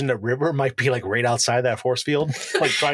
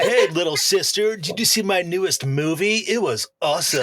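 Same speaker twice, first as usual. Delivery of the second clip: a cocky big brother showing off; smug asshole brother; 4 semitones higher than usual. Acted. Brother gloating to his little sister, lightly smug. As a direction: lean into the smug older-brother act. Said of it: "he even sounds more like an asshole now".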